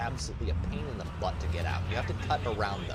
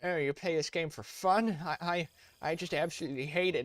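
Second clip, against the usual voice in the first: mocking realistic player; 7 semitones higher than usual. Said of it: "realistic players ... are like".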